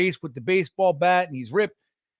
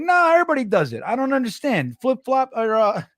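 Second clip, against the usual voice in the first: imitating teen son; 4 semitones higher than usual. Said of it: "he's like".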